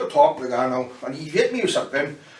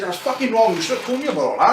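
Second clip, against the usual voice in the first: retold scolding; 7 semitones higher than usual. K-Man scolding him.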